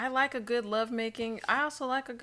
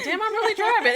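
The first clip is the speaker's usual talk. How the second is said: high, laughing amazement; laughing disbelief; 12 semitones higher, 7 dB louder than usual. Retold or imitated. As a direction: marvel at yourself through a laugh. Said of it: "I'm like".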